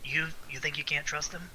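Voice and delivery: hushed, confiding question; softly voiced conspiratorial aside; whispering. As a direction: say it softly into someone's ear. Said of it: "He whispers into your ear saying".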